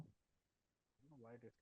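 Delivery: faint and slow, far from the mic; barely audible. Real, not acted. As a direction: voice fading out of reach. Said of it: "it's low even for me".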